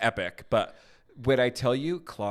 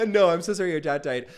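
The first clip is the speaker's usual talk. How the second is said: mock sympathy; 7 semitones higher, 6 dB louder, faster than usual. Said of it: "I'm like".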